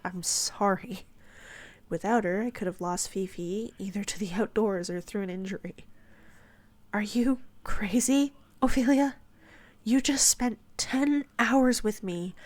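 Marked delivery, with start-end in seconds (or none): 0.0-1.1 I'M SORRY drawn out slowly in disbelief; puzzled echo. A narrator's reading. Narrator doubts Ophelia's apology, puzzled slow "I'm sorry". 6.9-12.3 higher, louder, slow emphatic disbelief; incredulous protest. A narrator's reading. Narrator refuses Ophelia's apology, incredulous and emphatic.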